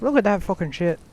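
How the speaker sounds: put-on a Chicago accent that slides into Scottish; botched Chicago accent. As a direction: try for Chicago, land in Scotland. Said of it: "my attention to the Chicago accent, and it came out completely Scottish".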